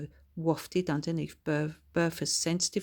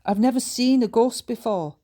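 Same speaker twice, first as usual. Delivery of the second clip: louder, higher burst of amazement; louder excited old Scots lady; exclaiming; 6 semitones higher, 9 dB louder than usual. Acted. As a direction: blurt it out in wonder. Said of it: "exclaimed Bertha".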